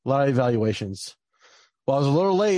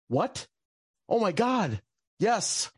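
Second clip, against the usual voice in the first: much higher, excited disbelief; relieved excitement at the appeal news; retold joyful relief; 5 semitones higher, slower than usual. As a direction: gasp it out like a rescue.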